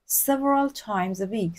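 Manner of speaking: very slow, careful English; slow model reading. Shown as a demonstration. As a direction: read slowly so students can follow.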